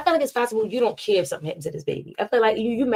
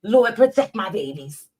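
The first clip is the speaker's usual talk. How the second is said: slightly raised, put-on mocking voice; a hint of a silly voice on the prayer; mild mock read of a rival's post; mocking changed voice; 3 semitones higher, 4 dB louder than usual. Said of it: "not just because I changed my voice".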